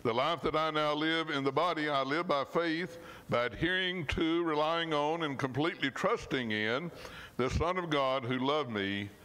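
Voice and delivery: earnest, measured Bible reading; scripture reading. Acted. Preacher reading Galatians to the church, earnest and measured. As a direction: read the verse like a promise you believe.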